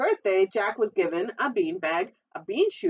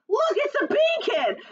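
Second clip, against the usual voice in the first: bully's shout; 4 dB louder than usual. Acted. Bully spots Jack, shouting.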